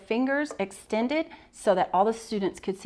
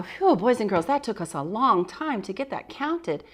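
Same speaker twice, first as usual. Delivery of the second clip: kindergarten teacher voice; 2 semitones higher than usual. Shown as a demonstration. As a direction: lively voice for young kids. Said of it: "And I go".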